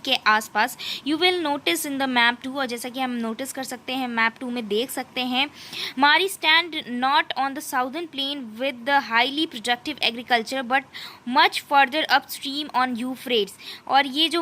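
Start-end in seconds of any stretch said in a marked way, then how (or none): 1.1-2.6 slow, deliberate reading of English text; slow textbook reading. Acted. Teacher reading the textbook passage to students, slow and careful. 6.0-13.5 slow, deliberate reading of English text; slow textbook reading. Acted. Teacher reading the textbook passage to students, slow and careful.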